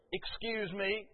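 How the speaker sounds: understated affront; pointed excuse me. Acted. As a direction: say it as a quiet challenge. Acting out a pointed short sentence.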